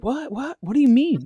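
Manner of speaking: high, startled what-what; incredulous. Retold or imitated. Dad to buddy, acting puzzled, high and incredulous. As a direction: play dumb, squeaking in disbelief. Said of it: "So he's like".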